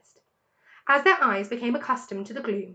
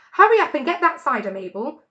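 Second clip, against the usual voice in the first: calling out; 4 semitones higher, 8 dB louder than usual. A narrator's reading. Woman calling from house.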